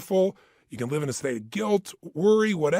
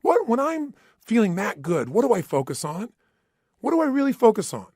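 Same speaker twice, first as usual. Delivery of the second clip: feeling great; 8 semitones higher, 6 dB louder than usual. Shown as a demonstration. Coach demonstrating a peak state to his audience, buoyant and loud. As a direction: show the crowd what feeling that good sounds like. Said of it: "Let me try it".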